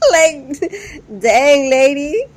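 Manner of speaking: high, loud dang lady; shocked. Real, not acted. Vlogger reacting to the mother's behavior, shocked exclamation.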